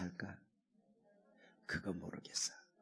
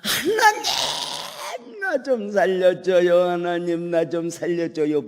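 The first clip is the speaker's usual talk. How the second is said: long drawn-out scream to God, much higher and louder; desperate crying out; 9 semitones higher, 12 dB louder, slower than usual. Acted. Man hanging from a branch cries to God, desperate wailing shout. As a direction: wail it out slowly, begging for life. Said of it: "부르짖는 기도를 시작해".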